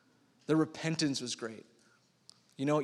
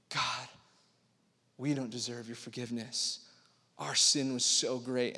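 humble confession; 4 semitones lower, 5 dB quieter than usual. Retold or imitated. Preacher voicing Ninevites' contrite prayer, hushed. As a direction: whisper it like a guilty plea. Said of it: "the Ninevites are realizing".

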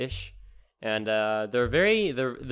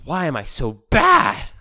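mock self-pity; 4 semitones higher, 11 dB louder, slower than usual. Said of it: "I'm like".

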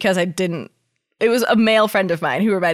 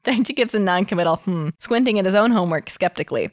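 story narration. Acted. Reads fanfic aloud.

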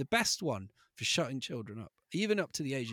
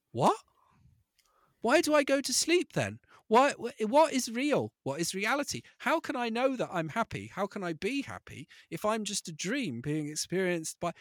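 put-on worried child questions; 6 semitones higher, 4 dB louder than usual. Father voicing his anxious child.

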